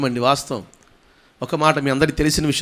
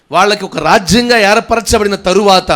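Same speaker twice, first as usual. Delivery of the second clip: raised, louder proclamation; emphatic preaching; 5 semitones higher, 6 dB louder than usual. Real, not acted. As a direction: lift the voice to press the point. Preaches at full force. (గొంతు పెంచి నొక్కి ప్రసంగం)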